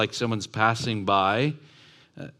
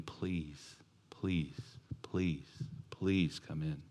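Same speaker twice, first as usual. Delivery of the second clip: soft, lower, begging please; pleading; 5 semitones lower, 12 dB quieter, much slower than usual. Acted. Father on his knees begging his son, pleading. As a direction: plead gently from your knees. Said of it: "begging him".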